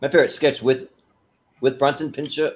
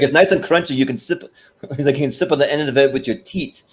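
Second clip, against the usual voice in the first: put-on Serge's accent; 3 semitones higher than usual. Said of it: "the way that he does the accent".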